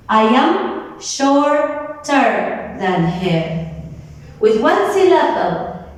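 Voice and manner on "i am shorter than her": slow example sentence. Shown as a demonstration. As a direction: model sentence spoken slowly. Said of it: "Look at the example".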